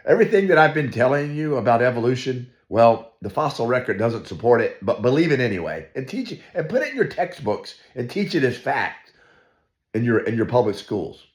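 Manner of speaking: lampoon Darwin admitting defeat; mock Darwin confession. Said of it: "this is what Darwin was saying".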